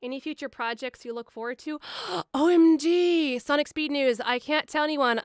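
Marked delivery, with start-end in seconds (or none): 2.1-5.2 bursting with news she can't share; thrilled gasp and squeal over a secret role; excited gasp. Real, not acted. Gasps about a secret project.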